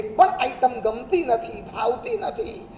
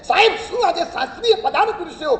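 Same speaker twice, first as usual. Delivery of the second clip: gushing praise; 3 semitones higher, 5 dB louder than usual. Retold or imitated. Disciples gushing praise to guru.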